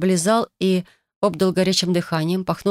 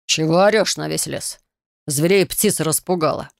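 curt, irritated male voice; angry man. Acted. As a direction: snap at her like a gruff stranger. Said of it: "сердитый, резкий мужской голос".

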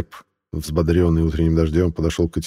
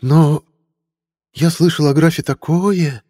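"такое" stretched slowly; drawn-out word; 10 semitones higher, 4 dB louder, slower than usual. Acted. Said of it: "протянул последнее слово Винсент".

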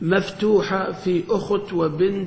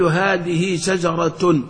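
slow, deliberate example phrase; much slower than usual. Shown as a demonstration. Teacher reading an example phrase to students, slowly. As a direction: spell the phrase out slowly for the class. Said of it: "تقول".

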